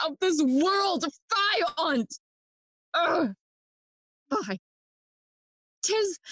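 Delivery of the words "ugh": short "ugh" of revulsion; disgusted groan. Acted. Hamlet sickened by the world, disgusted groan.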